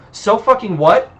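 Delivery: high echoed question, rising at the end; incredulous echo. Acted. Hunter repeats the vampire's retort back at him, incredulous. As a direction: throw the words back as a question.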